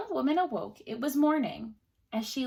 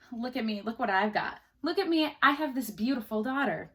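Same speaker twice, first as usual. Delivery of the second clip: boastful bragging. Retold or imitated. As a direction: brag about it like a proud father. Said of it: "It's like".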